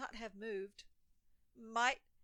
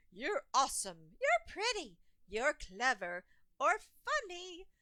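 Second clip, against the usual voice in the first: loud, high proclamation of praise; declaring shout; 4 semitones higher, 5 dB louder than usual. A narrator's reading. The cool gang shouting praise, loud and high. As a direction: call it out to the crowd. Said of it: "Who declares with a shout".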